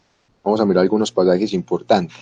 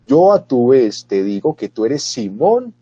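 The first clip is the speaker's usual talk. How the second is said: solemn Jesus; 3 semitones higher, 4 dB louder, slower than usual. Acted. Jesus answering Pedro solemnly.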